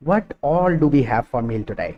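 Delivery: very slow, word by word; slow model sentence. Shown as a demonstration. Teacher modelling a question for students, very slow. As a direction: stretch each word out for learners. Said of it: "इसमें हमने we को खुद जोड़ लिया है".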